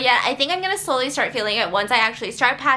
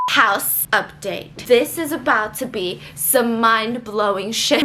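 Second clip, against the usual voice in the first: mock dramatic; 3 semitones lower, much slower than usual. Real, not acted. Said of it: "I'm just kidding".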